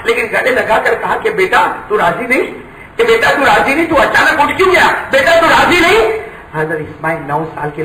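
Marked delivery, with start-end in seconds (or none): 1.3-6.0 pleading father. Acted. Father pleads with his son.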